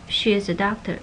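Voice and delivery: She is a doctor, rising on doctor; statement word order, questioning tune. Shown as a demonstration. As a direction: lift the end of doctor. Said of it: "if it's stated like a statement".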